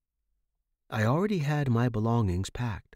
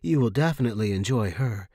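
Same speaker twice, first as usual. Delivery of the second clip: eager promise; 5 dB louder than usual. Acted. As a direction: sell it like a promise. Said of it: "Maria promised".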